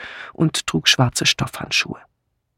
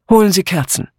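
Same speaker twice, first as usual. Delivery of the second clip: higher, firm order; commanding; 5 semitones higher, 3 dB louder, faster than usual. A narrator's reading. Miss Blacklock orders Mitzi to fetch candles, commanding. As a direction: give it as a brisk command, mildly. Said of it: "befahl ihr Miss Blacklock".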